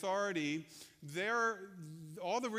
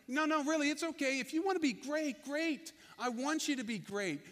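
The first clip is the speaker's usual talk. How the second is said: eager encouragement; 5 semitones higher, 3 dB louder than usual. Retold or imitated. Jesus encouraging the would-be great.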